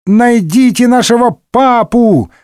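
put-on kids wailing. A narrator's reading. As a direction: wail it like a pack of kids. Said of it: "завопила мелюзга".

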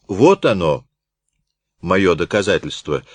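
a touch of triumph; mild triumph. Acted. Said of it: "воскликнул торжествующий Рультабиль". (сдержанное торжество)

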